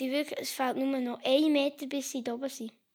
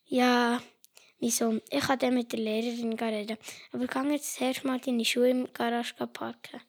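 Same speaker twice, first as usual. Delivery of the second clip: softer, calm mother; 5 dB quieter than usual. Acted. Mother calming her son, softer and brisk. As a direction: soothe the boy, softly.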